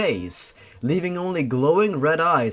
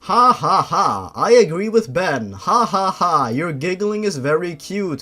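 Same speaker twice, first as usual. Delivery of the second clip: giggly clown; 3 semitones higher, 4 dB louder than usual. Acted. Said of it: "L J said".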